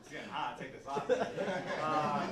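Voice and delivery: laughing while talking. Real, not acted. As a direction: chuckle through the words. Laughing, taking a layer off.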